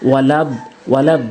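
"ওয়ালাদ" with a short quick "লা"; লাম না টেনে. Shown as a demonstration. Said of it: "লাম টানা যাবে না". ("ওয়ালাদ"-এ লাম না টেনে ধরা)

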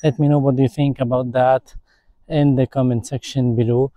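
noise reduction artifacts. Shown as a demonstration. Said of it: "I will turn it on again".

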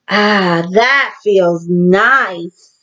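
slow, relaxed ah, that feels nice; contented sigh. Pretend. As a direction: sink into it like cool shade. Resting in the shade.

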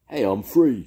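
high, loud joyful shout. A narrator's reading. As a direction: shout out the moment you break loose. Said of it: "shouted Duke".

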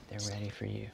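quiet hushed whisper. Real, not acted. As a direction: whisper it so mom won't hear. Hushed call before mom's surprise.

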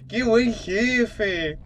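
very slow, savouring praise; slow admiring exclaim. Real, not acted. Player praising the beaten boss, slow admiring exclaim. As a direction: draw it out in admiration.

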